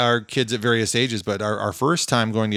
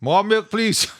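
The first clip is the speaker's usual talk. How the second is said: put-on high whiny toddler voice; baby voice; 10 semitones higher, slower than usual. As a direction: ask like a little kid, pitched high. Mocking himself as a baby.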